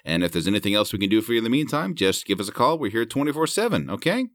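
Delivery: cheerful phone-agent tone ending on a bright insult; sweet customer service voice. Retold or imitated. Customer service agent, mock-cheerful sign-off. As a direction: sound polite while saying nonsense. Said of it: "intonation and tone of voice".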